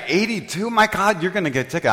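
retold gasp of disbelief at the speed; shocked friend. Passenger reacts to driver's speeding, in mock alarm.

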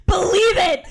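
high loud laughing shout. Acted. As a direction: belt it out mid-laugh. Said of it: "shouted Winnie the Pooh".

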